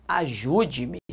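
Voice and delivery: soft, low plea for help; pleading. Shown as a demonstration. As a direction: beg quietly, voice dropped. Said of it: "Isso não é uma ordem". (súplica baixa e suave)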